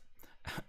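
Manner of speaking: short voiceless laugh; quick quiet laugh on the breath. Real, not acted. Player amused by the vase talk, short breath of laughter.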